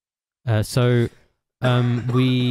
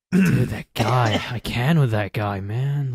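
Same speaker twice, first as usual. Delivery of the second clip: put-on American accent. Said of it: "you get your American accents from".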